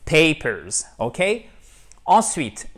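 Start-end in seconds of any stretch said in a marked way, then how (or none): 0.1-0.9 "papers" with a firm, full PAY at the front; strong stressed diphthong. Shown as a demonstration. Teacher urging shy learners to dare, strong stressed diphthong. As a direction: hit the "pay" of "papers" unashamedly. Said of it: "de cette façon un peu fort".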